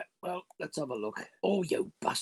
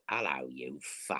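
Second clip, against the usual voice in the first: low, slow menacing voice; menacing greeting; 10 semitones lower, 7 dB quieter, slower than usual. Acted. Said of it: "I shall just look at him and go".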